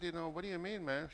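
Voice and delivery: lightly voiced puzzled self; a hint of a puzzled reply. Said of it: "And I said".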